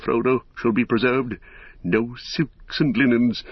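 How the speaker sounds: lightly voiced wise wizard, measured and assured; a touch of stately proclamation; Gandalf.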